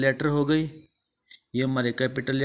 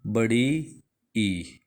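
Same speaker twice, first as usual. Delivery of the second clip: slow teaching; 2 semitones lower, much slower than usual. Shown as a demonstration. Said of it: "आई को क्या बोलेंगे इसमें?".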